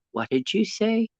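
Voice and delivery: shocked mother. Retold or imitated. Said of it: "she just looked at me like".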